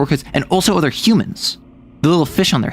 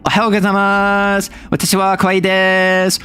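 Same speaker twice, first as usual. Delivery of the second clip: cutesy anime maid; 6 semitones higher than usual. Retold or imitated. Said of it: "it's just like, a maid mech".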